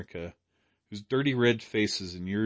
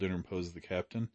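plain reading voice

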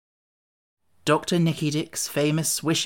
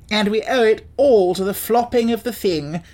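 Wogglebug voice; 6 semitones higher, 4 dB louder than usual. Acted. Wogglebug character voice.

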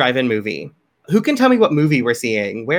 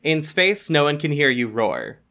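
horror trailer voice; 4 dB quieter than usual. Acted.

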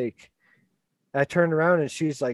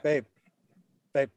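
louder, rapid repeated calls; husband calling wife excitedly in the store; urgent calling; 6 dB louder than usual. Retold or imitated. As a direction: grab her attention, urgently.

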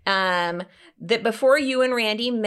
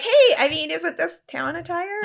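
laughing; 9 semitones higher than usual. Retold or imitated. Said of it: "I was like".

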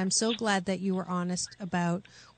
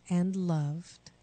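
calm affirmation. Shown as a demonstration. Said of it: "Repeat after me".

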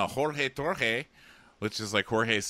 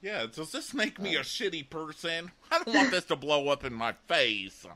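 higher-pitched mock worrier; mock contestant confession; 7 semitones higher than usual. Host voices contestant fretting to camera, mock worried. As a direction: put on a higher voice for a self-doubting aside.

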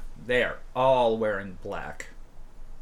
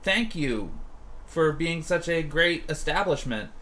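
higher, mock-sweet visitor voice; butter her up, too nice; fake-friendly ganger; 5 semitones higher than usual. Gangers at the door, sugary and insincere. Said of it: "they were just like".

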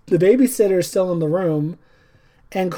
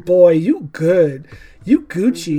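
mock casual reassurance; 5 dB louder, slower than usual. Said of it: "is like".

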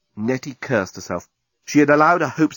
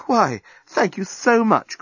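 slow, higher-pitched gushing thanks; grateful; 9 semitones higher, slower than usual. A narrator's reading. Flattered thanks for unexpected favour.

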